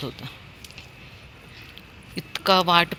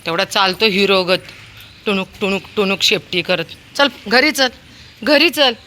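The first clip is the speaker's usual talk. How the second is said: loud, high commands to get up and come; calling dog home; 5 semitones higher, 6 dB louder than usual. Real, not acted. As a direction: order the dog home, getting impatient. Owner orders dog home.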